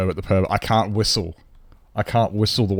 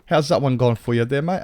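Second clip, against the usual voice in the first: high, louder mock British accent; 4 semitones higher, 3 dB louder than usual. To chat, showing off a British accent. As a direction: play a cheeky Londoner, up high. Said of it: "British accent".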